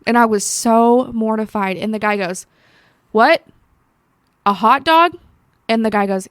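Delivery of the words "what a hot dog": loud, higher, incredulous mock reply; surprised coworker. Coworker shouting back in disbelief about the hot dog, loud and surprised. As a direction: sound baffled that it's just a hot dog.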